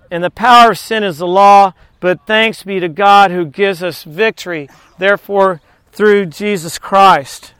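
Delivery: measured, earnest scripture reading. Acted. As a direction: read the verses like a preacher. Reads scripture aloud in sermon.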